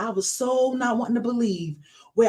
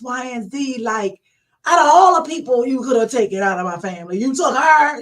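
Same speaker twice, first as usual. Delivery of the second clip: raised-pitch fussing, building to louder at the end; retold angry plea; 3 semitones higher, 3 dB louder than usual. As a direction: reenact pleading that builds into yelling. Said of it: "I'm yelling and I'm fussing".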